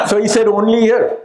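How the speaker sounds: teasing with a laugh in the voice; amused laugh. Retold or imitated. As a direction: ask it through a light laugh. Baba laughing at the joke.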